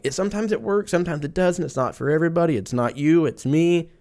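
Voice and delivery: high-pitched mock excuses; evasive clinic staff. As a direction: reel off noncommittal excuses as a caricature. Imitating vague clinic excuses.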